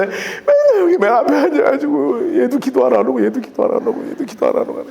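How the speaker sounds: whimpering, cried-out lament; mock sobbing grumble; imitated tearful complaint. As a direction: act out moaning each absence through tears. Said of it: "울면서 기도했다가".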